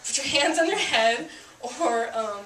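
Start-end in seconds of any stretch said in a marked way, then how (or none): 0.1-1.3 higher-pitched order; mock police command. Shown as a demonstration. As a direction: demonstrate a command, voice lifted. Demonstrating shouted police commands.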